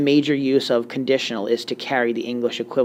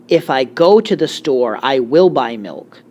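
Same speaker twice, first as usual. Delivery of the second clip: slow example sentence; 6 dB louder, slower than usual. Shown as a demonstration. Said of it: "instead of saying something like".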